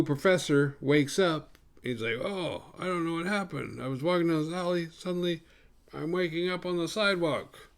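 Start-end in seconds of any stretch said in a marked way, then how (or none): 2.2-7.7 higher-pitched put-on Asian accent; a stereotyped Asian accent, played for a joke; mock Asian accent. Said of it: "that racist Asian".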